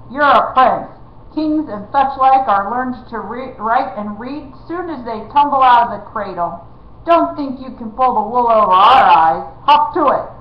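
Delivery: loud rough bandit scolding; bully the boy into obeying; blustering outlaw. Acted.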